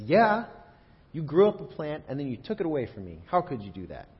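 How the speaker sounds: loud, high, indignant outburst; mock angry Jonah. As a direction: storm at God like a toddler in a tantrum. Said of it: "he storms up to God ... and he says".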